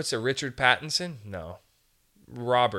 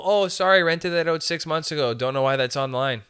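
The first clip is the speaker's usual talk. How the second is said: dismissive landlord; 3 semitones higher, 4 dB louder than usual. Retold or imitated. Landlord brushing off applicant.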